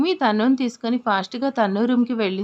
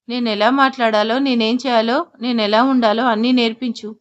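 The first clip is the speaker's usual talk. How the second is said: louder, bitter sarcastic demand; angry retort; 4 dB louder than usual. Acted. Husband snapping back at his wife in an argument, louder and angry. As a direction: throw the words back at her, louder.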